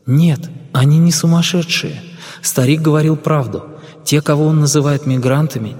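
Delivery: a hint of a calm young woman; lightly voiced young woman. (слегка обозначенный женский голос)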